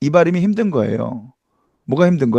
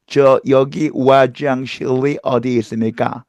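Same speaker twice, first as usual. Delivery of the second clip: put-on slow American-accented Korean, 와장실 with no h; a foreigner asking the way; 3 semitones lower, slower than usual. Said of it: "이렇게 발음하는 거예요".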